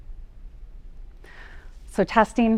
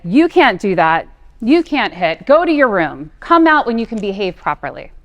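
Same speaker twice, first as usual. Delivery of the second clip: scolding parent; 2 semitones higher, 9 dB louder than usual. Retold or imitated. Mother retelling how she used to scold her daughter, angry. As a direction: lay down the rules like an exasperated parent. We would say.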